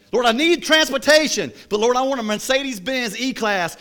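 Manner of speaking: high, loud cry to the Lord; hammed-up prayer of great need; mock pleading. Believer asking God for a car, mock high pleading.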